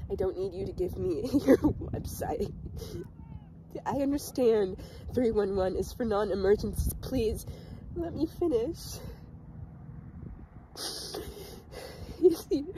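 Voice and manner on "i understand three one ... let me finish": higher-pitched, strained plea without shouting; pleading frustration. Acted. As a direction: beg to be allowed to finish. Second take, caller cut off.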